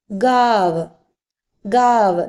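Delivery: ഗാവ് with long aa straight into v; drawn-out model of ഗാവ്, no m sound; silent nasal. Shown as a demonstration. Teacher repeating for learners, ഗാവ് without the nasal. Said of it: "പക്ഷെ ഇവിടെ silent ആണ്".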